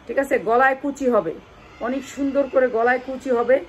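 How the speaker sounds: loud pushy sales pitch; hard sell ad. Acted. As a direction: sell it hard to the live viewers. Live sale pitch, loud.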